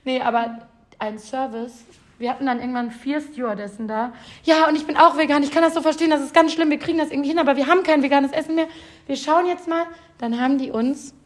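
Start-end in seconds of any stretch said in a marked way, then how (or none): 4.4-9.8 a touch higher, lightly voiced caring attendant; imitating the stewardess. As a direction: reassure like an eager flight attendant. Imitating sympathetic flight attendant. (leicht gespielte mitfühlende Stewardess)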